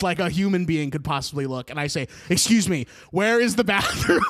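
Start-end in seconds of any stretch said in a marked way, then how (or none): 2.3-4.2 mock-panicked plea, louder and rising; flustered, raised-voice desperation, played for laughs. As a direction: act out an urgent, panicked question. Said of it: "Just, like, so panicked".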